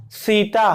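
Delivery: सीता with the tongue touching the teeth, dental s. Shown as a demonstration. Teacher models dental सीता for students, crisp dental s. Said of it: "जिह्वा है वह ऊपर के दांतों को छूनी चाहिए".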